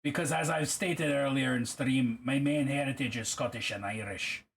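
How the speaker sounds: attempted Scottish accent; Scottish accent with some Irish in it. Shown as a demonstration. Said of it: "I'll try a Scottish accent".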